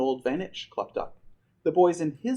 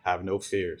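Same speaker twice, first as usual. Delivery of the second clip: reassuring; 8 semitones lower, 3 dB quieter than usual. Acted. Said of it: "said the chief".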